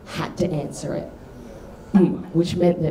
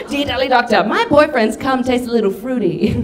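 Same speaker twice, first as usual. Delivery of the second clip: lightly put-on higher letter voice; mock letter writer; 5 semitones higher, 4 dB louder than usual. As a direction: read it out with mock earnestness. Reads out her childhood prank letters.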